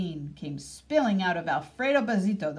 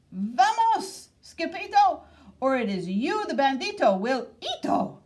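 higher, louder urgent call to flee; frightened crowd cry; 7 semitones higher, 5 dB louder than usual. A narrator's reading. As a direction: shout a warning to run. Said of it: "they cried".

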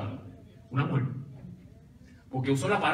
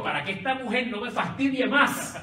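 mock-irritated judge, said through laughter, pitched higher; exasperated judge giving in, laughing; annoyed judge, laughing; 6 semitones higher than usual. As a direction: play the fed-up judge with a chuckle. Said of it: "Esa es la versión mía".

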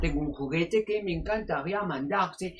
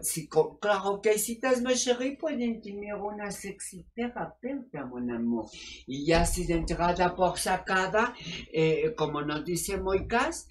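sultry therapist. Acted. Sexy doctor answering callers on air, sultry and purring. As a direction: purr it like a seductive radio doctor.

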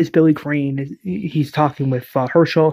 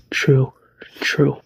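whispered. Acted. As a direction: whisper it, resigned. Lori conceding softly.

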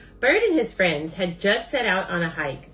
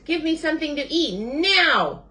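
high demand, swelling on the last word; shouting; 11 semitones higher, 3 dB louder than usual. A narrator's reading. Famished Bird orders Rabbit to feed him, high shout. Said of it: "shouted Bird".

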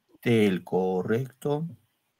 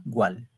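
"Gual" spoken softly with its "al" held long; stressed al; 4 dB quieter than usual. Shown as a demonstration. Teacher letting students hear the stressed "al" in "Gual". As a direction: hold out the "al" in "Gual". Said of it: "La al suena más".

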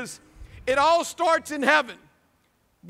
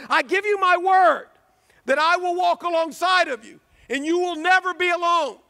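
impassioned divine promise; 4 semitones higher than usual. Acted. Preacher voices Christ's promise to believers.

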